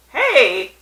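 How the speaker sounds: high, loud character voice; hammed-up bar customer. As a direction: call it out high and loud, dragging out the last line. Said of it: "and the guy says".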